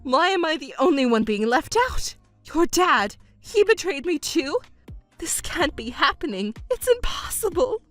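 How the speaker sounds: wounded protest, pitch climbing on the questions; distraught disbelief. Acted. Mother learning her whole family deceived her, distraught. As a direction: wail it as a betrayed parent.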